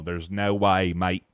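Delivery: low, badly aimed Australian accent; accidental Australian accent. Host imitating English homie, botched Australian accent. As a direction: slip into an Australian accent by mistake. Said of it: "Wait, that was Australian".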